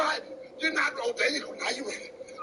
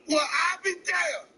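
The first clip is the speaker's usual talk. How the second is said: exasperated shout; slower than usual. Real, not acted. Dog runs off, owner exasperated.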